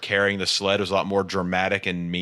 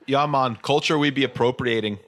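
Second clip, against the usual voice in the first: mock Jamaican accent; 3 semitones higher than usual. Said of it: "white boy doing Jamaican accents".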